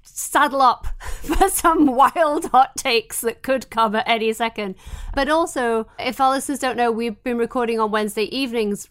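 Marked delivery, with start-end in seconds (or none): 0.0-4.8 sick and congested, speaking. Real, not acted. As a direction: talk through a head cold. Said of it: "I'm sick".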